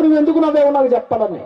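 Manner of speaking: demanding king. Retold or imitated. King grills the minister on why he laughed, pressing demand. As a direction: corner him, insist on an answer. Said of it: "రాజుగారు నిలదీసి అడుగుతున్నారు".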